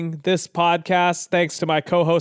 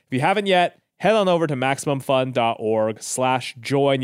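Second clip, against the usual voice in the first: usual speaking voice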